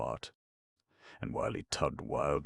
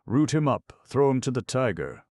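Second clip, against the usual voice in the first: angry command; 9 semitones higher, 8 dB louder than usual. Acted. Scribe orders them thrown out.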